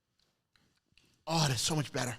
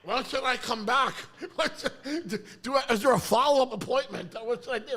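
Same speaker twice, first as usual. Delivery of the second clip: mock eager patient; 2 semitones higher than usual. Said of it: "I love leaving like this".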